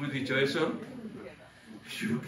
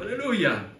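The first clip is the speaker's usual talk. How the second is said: higher, louder joyful hallelujah; Silas shouting; 7 semitones higher, 5 dB louder, slower than usual. Acted. Silas answering Paul in the cell, joyful shout. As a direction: exclaim it with joy. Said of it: "Silas gritando".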